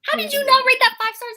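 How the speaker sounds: real indignant surprise at a friend's rating; incredulous. Real, not acted. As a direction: demand an answer in disbelief.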